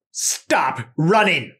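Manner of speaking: slow, drawn-out order; commanding. Shown as a demonstration. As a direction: stretch it out as a firm command. Example of a commanding sentence.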